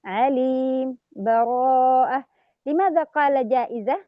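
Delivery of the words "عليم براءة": slow, brief breathless stop before براءة; with sakt. Shown as a demonstration. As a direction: stop lightly after عليم. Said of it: "يوجد سكتة".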